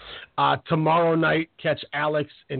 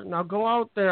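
slightly raised, lightly voiced female official; put-on woman's voice; 4 semitones higher than usual. Referee sending the player out, lightly put-on voice. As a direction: imitate a woman giving orders. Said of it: "I don't know why she sounded like that".

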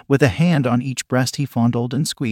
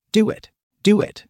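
high urging inner voice; 9 semitones higher than usual. A narrator's reading. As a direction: urge it on, pitched high. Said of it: "one voice said in my head".

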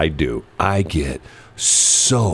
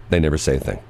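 ordinary delivery

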